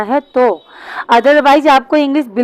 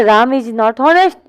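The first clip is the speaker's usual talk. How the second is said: बहुत धीरे, हर शब्द अलग; जवाब को लिखवाने की रफ़्तार में; slow dictation; much slower than usual. Shown as a demonstration. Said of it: "तो क्या बोलोगे". (विद्यार्थियों को सही वाक्य धीरे से बताता टीचर)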